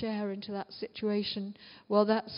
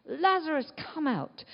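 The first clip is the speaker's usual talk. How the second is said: mild retold shout, starting high; raised call; 5 semitones higher than usual. Jesus calling to Lazarus as retold, a mild shout. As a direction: call it out with restrained force. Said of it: "and then he shouts".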